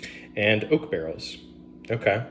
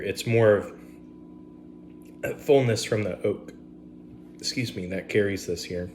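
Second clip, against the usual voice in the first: talking through hiccups; hiccuping. Real, not acted. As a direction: hiccups breaking into words. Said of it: "I don't know why I'm hiccuping".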